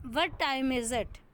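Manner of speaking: "time" carries the weight in a slow question; stress on TIME. Shown as a demonstration. Teacher demonstrating word stress, "time" stressed. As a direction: lean on "time", then fall away. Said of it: "टाइम पे".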